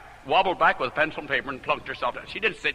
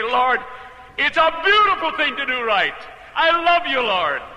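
lifted, louder and higher, full of love; joyful praise; 7 semitones higher, 4 dB louder than usual. Shown as a demonstration. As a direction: sing out the joy of doing right. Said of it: "It's one thing to say".

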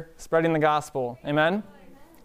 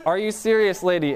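half-raised voice, imitating an angry yell; mock yell; 3 semitones higher than usual. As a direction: act out a robber yelling in disbelief, without a full shout. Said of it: "Another man started yelling".

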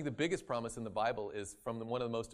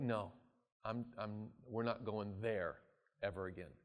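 firm quiet vow; 4 semitones lower, 6 dB quieter than usual. Pretend. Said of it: "we're like".

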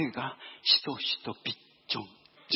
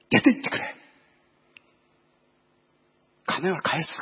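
loud furious order to get out; loud shout; 3 semitones higher, 7 dB louder than usual. Retold or imitated. Driver shouting at rude passengers to leave, loud. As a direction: throw them out with a yell. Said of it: "ものすごい大きな声で".

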